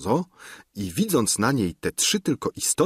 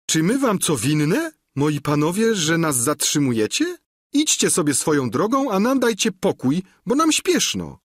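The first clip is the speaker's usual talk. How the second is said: grimacing peasant woman; 7 semitones higher than usual. Acted. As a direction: pitch climbing higher to an impatient squeal. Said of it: "krzywiąc się niepoślednio".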